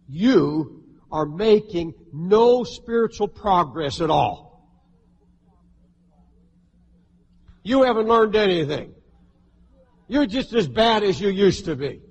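a weighty, emphatic voicing of the accuser; devil's accusing lie. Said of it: "His biggest lie of all is this".

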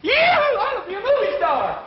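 very high, whooping holler; excited bellow. Acted. Boy told he can be a movie star, bellowing with joy. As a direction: bellow it like a bee-stung calf. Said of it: "bellowing like a bee-stung calf".

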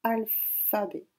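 Alphabet said slowly, syllable by syllable, then falling; dictation voice. Shown as a demonstration. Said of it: "dictée". (Alphabet dicté lentement)

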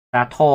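砂糖 with a heavy 糖; stress on 糖. Shown as a demonstration. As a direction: hit 糖 in 砂糖 firmly. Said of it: "糖的话念比较重哦".

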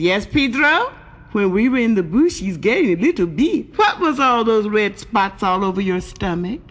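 lilting mock Mexican accent. Pedro and Rosita talking after the bushes, Mexican accent. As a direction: exaggerate the Mexican accent with rising swoops. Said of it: "There were two Mexicans".

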